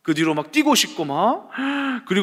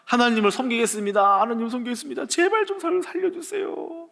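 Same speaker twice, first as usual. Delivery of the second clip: 높은 목소리로 애타게 비는 기도; 살려 달라고 매달리듯 높게; 간절한 기도; 5 semitones higher than usual. Retold or imitated. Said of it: "하고 간절히". (간절히 매달리는 기도)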